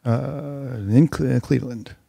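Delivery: slow, lightly deepened station ID. Shown as a demonstration. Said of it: "Talk lower. Let me hear you deeper".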